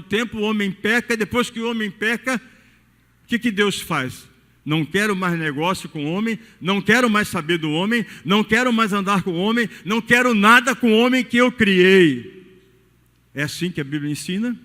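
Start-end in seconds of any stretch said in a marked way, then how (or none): 4.6-12.4 growing louder with each refusal, ending in a loud declaration; mock God rejecting man. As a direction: build from a firm no to a loud final rejection. Deus imaginado rejeitando o homem. (Deus recusando o homem, cada vez mais alto)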